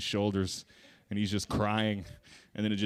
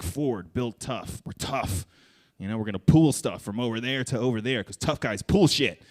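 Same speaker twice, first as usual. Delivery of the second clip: mock car ad voice; 5 dB louder than usual. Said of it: "like, car slogans".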